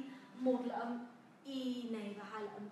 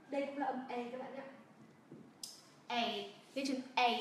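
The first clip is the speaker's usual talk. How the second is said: ordinary talk, nothing marked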